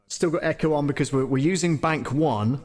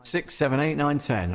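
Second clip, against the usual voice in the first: auto-tuned counting. Shown as a demonstration. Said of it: "we've got hard tune on".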